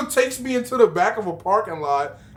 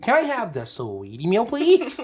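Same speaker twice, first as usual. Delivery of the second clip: mocking impression. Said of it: "He sounds like a fucking Barney Rubble".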